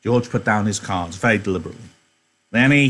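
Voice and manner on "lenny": a sharp louder call of the name; a touch of sharpness, calling Lenny. Acted. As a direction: snap the name as a warning. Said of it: "he said sharply".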